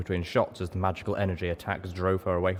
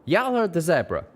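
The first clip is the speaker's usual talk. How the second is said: twangy shout; 11 semitones higher, 5 dB louder than usual. A narrator's reading. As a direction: yell it over the gunfire. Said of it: "Calamity shouted".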